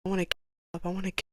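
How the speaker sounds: starts loud and fades to near silence; pleading mantra that sinks away; a hint of a broken plea, dying out; desperate repeating. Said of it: "I remember repeating to myself".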